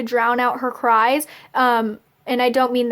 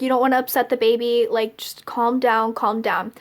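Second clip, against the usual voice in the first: calming; 2 semitones lower than usual. Retold or imitated. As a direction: imitate a mother gently settling someone. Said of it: "trying to calm me down".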